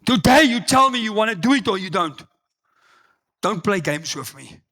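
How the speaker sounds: stern pastor warning. Retold or imitated. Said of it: "He says".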